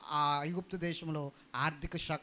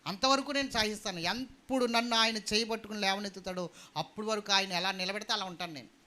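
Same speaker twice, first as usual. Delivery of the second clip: raised, insistent sermon voice; louder preacher's declaration; fervent preaching; 4 semitones higher, 6 dB louder than usual. Acted. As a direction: declare it with resolve, pitched up.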